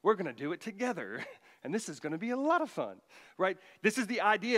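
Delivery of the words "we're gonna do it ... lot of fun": sarcastic parent. Retold or imitated. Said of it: "There's a bit of sarcasm in here".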